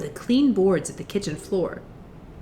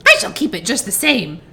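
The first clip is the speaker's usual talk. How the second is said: lightly voiced taunting witch, louder; mocking witch; 5 dB louder than usual. A narrator's reading. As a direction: taunt her as the witch, no real laugh. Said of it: "laughing at her".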